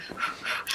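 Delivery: soft puff of breath; blowing on hot coffee. Acted. Acting class exercise with imaginary coffee, pretend blowing.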